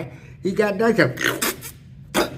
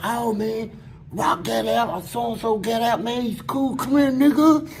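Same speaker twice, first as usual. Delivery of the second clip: higher-pitched imitation of impressed friends; mock hyped greeting; 4 semitones higher than usual. Friends hear someone got out, mock excited welcome. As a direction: build it up like welcoming a buddy home.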